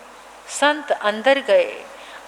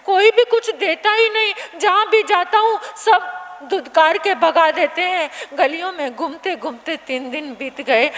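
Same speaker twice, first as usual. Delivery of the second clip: put-on begging child. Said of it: "हाथ जोड़कर कहने लगा".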